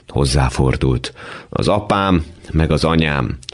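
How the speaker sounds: ordinary delivery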